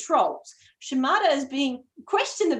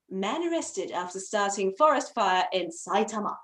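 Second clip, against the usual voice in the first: news announcer voice. Acted. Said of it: "do my best news announcer voice".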